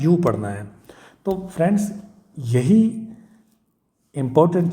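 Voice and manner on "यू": यू said as a full "yoo"; sound demo. Shown as a demonstration. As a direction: model यू as the English letter U, "yoo". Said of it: "क्या पढ़ना है".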